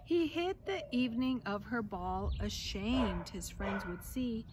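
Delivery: lively storybook reading voice; reading to children. A narrator's reading. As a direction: read the tale aloud to a class. Reads picture book aloud.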